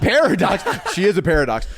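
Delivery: laughing. Real, not acted. Laughs at the name mix-up.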